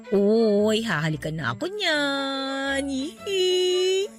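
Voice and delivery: drawn-out singsong taunt ending in a squeal; gleeful, giddy needling; teasing. Acted. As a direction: tease a crush about a kiss. Teasing about a coming kiss.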